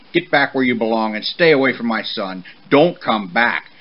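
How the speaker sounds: forceful, angry banishing; snorted order. Acted. Father horse banishing the motorcycle from his son, loud and stern. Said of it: "he snorted to Yama".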